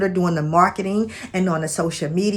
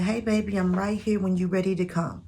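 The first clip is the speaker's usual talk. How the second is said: tender reassurance; 5 dB quieter than usual. Shown as a demonstration.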